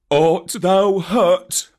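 worried question; Baloo asking. A narrator's reading. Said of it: "said Baloo".

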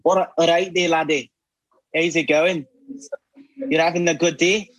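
a light Scottish brogue with rolled words; playful Scottish greeting; Scottish accent. Retold or imitated. Greeting a friend in a Scottish accent. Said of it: "Scottish one".

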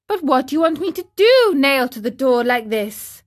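high, rapid protest; exasperated trapped marionette. Acted. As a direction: protest quickly in puppet voice.

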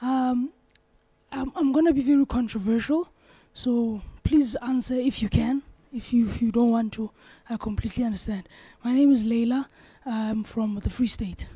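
hoarse from a sore throat. Real, not acted. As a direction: talk through a sore, rough throat. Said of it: "Excuse my voice, I have a sore throat".

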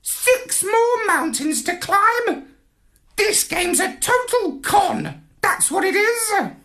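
high grumbling parrot voice; indignant parrot. A narrator's reading. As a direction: parrot crying foul. Parrot complains.

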